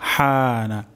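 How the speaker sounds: "হানা" with ha from mid-throat, long aa. Shown as a demonstration. Teacher showing learners where ha comes from, "হানা" from mid-throat. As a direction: sound "হানা" from the middle of the throat. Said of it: "হা উচ্চারণ হবে গলার মাঝখান থেকে".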